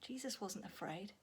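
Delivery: whispered softly; hushed calm. Acted. Storyteller hushing as the storm stops. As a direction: let it fall still and quiet.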